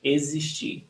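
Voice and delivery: Existir with a soft buzzed Z for the X. Shown as a demonstration. Teacher repeating the model for the class, X as Z. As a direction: say Existir as "eh-zeesh-CHEE". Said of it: "Z sound".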